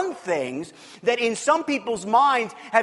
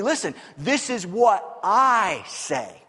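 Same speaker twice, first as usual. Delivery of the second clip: authoritative Jesus; much slower than usual. Retold or imitated. Jesus voiced asserting authority.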